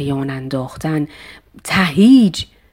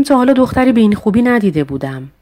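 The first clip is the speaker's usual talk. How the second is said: fast, high amazed exclamation; 6 semitones higher, faster than usual. Shown as a demonstration. Teacher demonstrating surprised admiration. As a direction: blurt it out in wonder.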